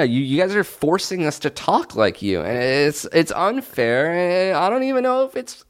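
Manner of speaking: high whiny tearful protest; mock crying. Host complaining to listeners about accents, mock crying. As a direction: whine as if breaking into tears. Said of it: "you're crying".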